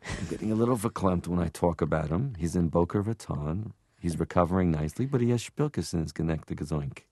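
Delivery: a lightly voiced Jewish New York hostess; Linda Richmond voice. Showing off made-up Yiddish, lightly voiced Linda Richmond. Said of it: "some stuff I made up".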